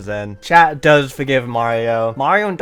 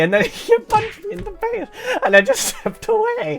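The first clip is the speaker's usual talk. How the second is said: high, cracking up in a bad Italian accent; laughing through it. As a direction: fight laughter while faking an Italian accent. Laughs while acting Mario's rambling story.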